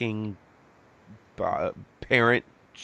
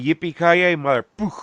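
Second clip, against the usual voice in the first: raised, punchy line cut off by a mouthed gunshot; mimicked catchphrase; 6 semitones higher, 4 dB louder than usual. Co-host demonstrating the gunshot censoring, mock-heroic. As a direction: parody a censored hero.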